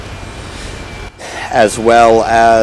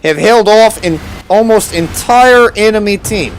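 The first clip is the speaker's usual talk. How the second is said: high, hammed-up Russian accent; 9 semitones higher than usual. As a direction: boast it in a cartoon Russian accent. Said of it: "in a Russian accent".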